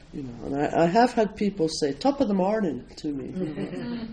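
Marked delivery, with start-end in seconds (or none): 1.9-2.8 lightly imitated Irish lilt, slightly raised pitch; mock Irish greeting. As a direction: playfully mimic a would-be Irish accent. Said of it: "they sound Irish".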